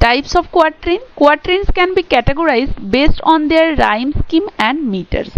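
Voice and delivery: reads English text very slowly, word by word; slow dictation reading. Shown as a demonstration. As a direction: dictate it slowly for students to copy. Reads English textbook definition aloud. (ধীরে ধীরে ডিক্টেশনের মতো পড়া)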